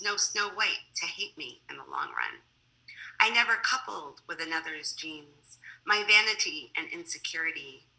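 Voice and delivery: poem reading. Acted. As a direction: recite it line by line, letting each ending drop. Reads a poem to an audience.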